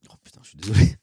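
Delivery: loud hammed-up curse, then a sorry; a staged burst of anger for the chat; mock outburst. Streamer fakes a rage at his own mistake for laughs, loud mock outburst. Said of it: "quand je m'énerve exprès".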